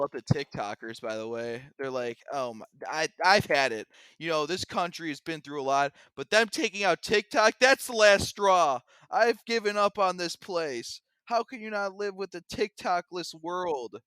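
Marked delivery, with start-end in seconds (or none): 2.3-14.0 hammed-up fed-up rant, high and loud; mock outrage building to a high, loud despair; upset. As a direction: play a TikToker dramatically at the last straw. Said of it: "You sound upset".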